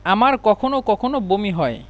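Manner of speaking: আমার কখনো কখনো বমি হয় repeated slowly and carefully; careful corrected take; slow correction. Shown as a demonstration. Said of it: "এখানে হবে আমার".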